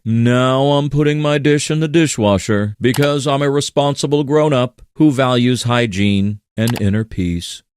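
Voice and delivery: smug self-help audiobook narrator. Retold or imitated. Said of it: "narrate every adult action like it's a self-help audiobook".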